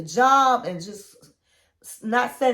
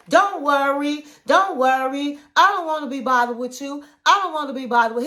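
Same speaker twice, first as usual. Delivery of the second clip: ranting over him. Retold or imitated. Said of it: "she talking over him".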